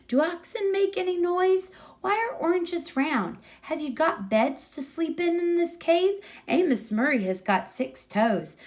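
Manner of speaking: lightly voiced boy firing questions; chattering boy. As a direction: babble excitedly with a full mouth. Kid's rambling supper speech.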